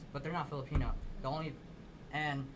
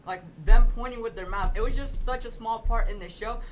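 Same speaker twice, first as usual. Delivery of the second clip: laughing excitement; 3 semitones higher, 10 dB louder than usual. Real, not acted. Excited about mouth-pointing scene.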